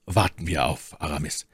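slightly low, subdued man's voice; ruhiger Athos. Acted. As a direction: suggest it calmly, a bit low. Athos calmly proposes waiting. (leicht tiefe, ruhige Männerstimme)

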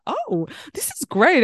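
high, slow, delighted mock cheer. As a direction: gush with relief, slowly. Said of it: "I was like".

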